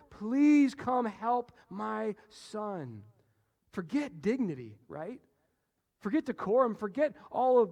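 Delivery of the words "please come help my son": loud, slow, drawn-out plea; desperate pleading. Retold or imitated. Official begs Jesus to heal his dying son, pleading loudly. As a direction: beg him over and over, loudly. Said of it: "Over and over and over".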